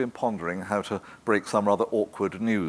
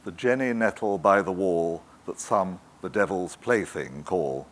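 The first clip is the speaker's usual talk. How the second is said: a lightly read-aloud poem line. Acted. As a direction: read the verse with gentle care. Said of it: "she read".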